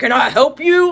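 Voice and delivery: loud, booming, challenging tone, mock. Speaker retells how their husband confronted a man at the door; imitating husband's deep loud voice. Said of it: "All like loud".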